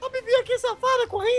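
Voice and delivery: high, teasing call-out; excited teasing. Real, not acted. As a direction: squeal it, spotting her. Spotting rival running.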